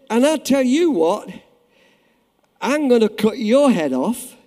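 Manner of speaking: loud, slow, high booming threat; booming giant's threat. Acted. Preacher voicing Goliath threatening David, loud and slow. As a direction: roar it out as the mocking giant.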